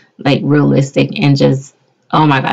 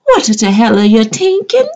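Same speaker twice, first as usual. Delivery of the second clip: bossy demand; 6 semitones higher than usual. Retold or imitated. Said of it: "I called Angela up and I said".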